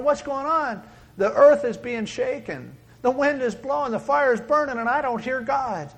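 high, agitated complaint; mock bewilderment. Believers asking why God is silent amid the noise, mock bewildered. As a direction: raise the voice in acted confusion.

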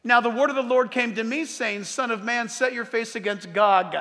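preacher proclaiming scripture; scripture reading. A narrator's reading. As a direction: read the verse out firmly to a congregation. Reads scripture aloud to congregation.

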